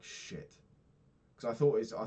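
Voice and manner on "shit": breathy under-the-breath shit; whispered curse. Retold or imitated. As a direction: whisper it as the mistake dawns. Realising the refund mistake.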